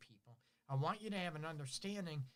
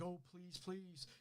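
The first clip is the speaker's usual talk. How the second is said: soft mock pleading, much quieter; begging; 3 semitones higher, 9 dB quieter, slower than usual. Partner begging for sex, softly pleading in mock. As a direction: imitate a partner begging under the breath. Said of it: "Or do you beg".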